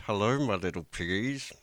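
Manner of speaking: forced cheer through clenched teeth; gritted teeth. Pretend. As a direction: force out a sweet greeting through clenched jaw. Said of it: "through gritted teeth".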